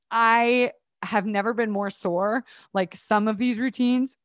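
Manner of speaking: words broken by hiccups. Real, not acted. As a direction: talk through the hiccups. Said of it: "I have the hiccups right now".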